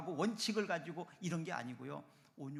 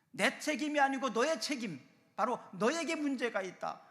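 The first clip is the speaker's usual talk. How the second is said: loud, high-pitched blame; acted finger-pointing, pushed loud and high; accusing; 7 semitones higher, 8 dB louder than usual. Family member blaming another for the problem, accusing.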